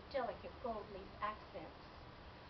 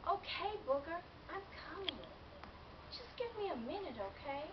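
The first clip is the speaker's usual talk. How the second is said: placating the cat; 7 semitones higher than usual. Acted. Owner answers nagging cat.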